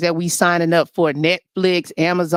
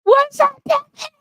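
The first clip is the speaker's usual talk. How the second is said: flirty squeal. Acted. Host greets a man in a high, flirty squeal. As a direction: coo it up high at him.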